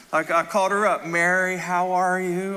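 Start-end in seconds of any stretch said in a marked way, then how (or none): 1.1-2.6 slow, drawn-out Southern greeting; Southern accent. Retold or imitated. Pastor phoning a Southern lady, in a Southern accent. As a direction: greet her with a Southern drawl. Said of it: "start talking in a Southern accent".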